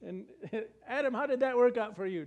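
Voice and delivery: God calling Adam. Acted. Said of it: "then he'll say".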